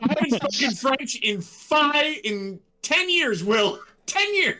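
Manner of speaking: exasperated, in French accent; mock-indignant French accent. Real, not acted. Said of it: "my French accent".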